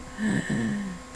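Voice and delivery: acted long weak gasp; pained gasp. Overeater three days later, mock pained gasp. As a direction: gasp as if overfull and suffering. Acting out being sick afterwards.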